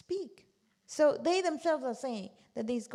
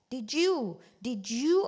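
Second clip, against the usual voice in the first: mock accusing question; 6 dB louder, much slower than usual. Crowd interrogating Ibrahim.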